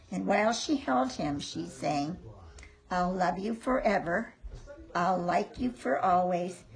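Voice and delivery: gentle storybook reading; reading to children. A narrator's reading. Reading to grandchild.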